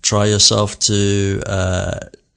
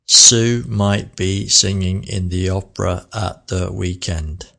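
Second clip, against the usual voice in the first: flat, featureless robot reading; robotic. Shown as a demonstration. Teacher showing a flat robotic read. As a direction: say it like a robot, no feeling. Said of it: "That was almost robotic".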